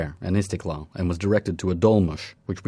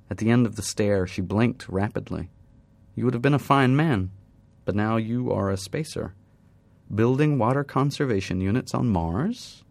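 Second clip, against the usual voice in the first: put-on lightly raised young woman, wistful. Woman muses to the spacer about his lost life, lightly raised and wistful.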